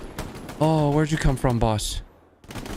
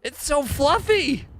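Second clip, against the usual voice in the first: high cutesy coo; 14 semitones higher, slower than usual. Real, not acted. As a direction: coo it like to a puppy. Cooing at a fluffy dog.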